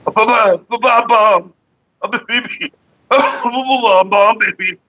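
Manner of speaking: babbling "Ba-ba" up high. Real, not acted. Babbling to a baby.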